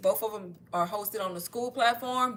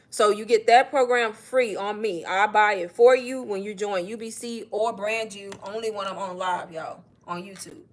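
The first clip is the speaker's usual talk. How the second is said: out of breath; 4 dB louder than usual. Real, not acted. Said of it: "'cause I'm out of breath".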